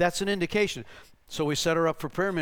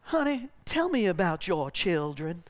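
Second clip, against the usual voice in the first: gentle Southern Belle. Retold or imitated. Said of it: "the Southern lady goes".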